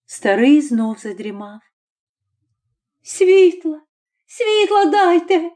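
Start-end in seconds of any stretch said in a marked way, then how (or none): 3.0-5.5 high, slow, panicked call for light; mother in the dark hut crying for a light; desperate cry. A narrator's reading. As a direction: shout for light in horror. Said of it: "скрикнула".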